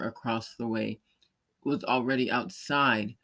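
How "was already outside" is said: ordinary delivery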